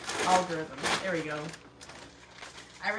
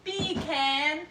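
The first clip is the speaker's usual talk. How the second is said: attempted English accent; 6 semitones higher, 6 dB louder than usual. Shown as a demonstration. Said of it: "say "Beer can" with an English accent".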